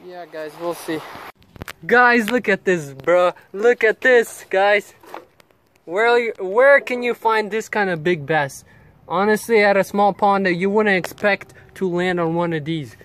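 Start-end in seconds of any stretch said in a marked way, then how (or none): 1.8-13.0 excited. Real, not acted. Showing off a big catch.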